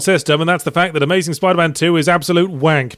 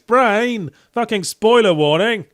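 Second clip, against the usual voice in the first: higher, indignant telling-off of his own brain; exasperated outburst; 6 semitones higher, much slower than usual. Pretend. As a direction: snap at your brain for ruining the twist. Scolding own brain for spoilers.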